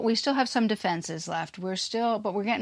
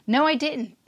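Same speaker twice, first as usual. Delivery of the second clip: higher-pitched imitated denial; emphatic denial; 6 semitones higher, 3 dB louder than usual. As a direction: act out a firm, quick contradiction. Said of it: "they say it very emphatically".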